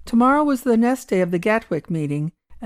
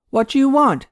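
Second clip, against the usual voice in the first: pressing the question louder, uneasy; insistent; 6 semitones higher, 5 dB louder than usual. Acted. Badler presses the stranger, insistent and uneasy. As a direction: demand it again, a touch rattled. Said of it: "Badler insisted, strangely uneasy".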